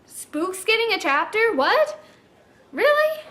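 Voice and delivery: reliving the shock of a surprise chapter; thrown. Retold or imitated. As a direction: caught off guard, question after question. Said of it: "I was thrown".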